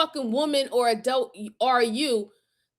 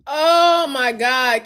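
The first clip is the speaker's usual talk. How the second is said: slow, louder gasp of disbelief; stunned oh my god; 5 dB louder, much slower than usual. Real, not acted. Horrified by the story she just heard, slow stunned disbelief. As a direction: let the shock drag the words out.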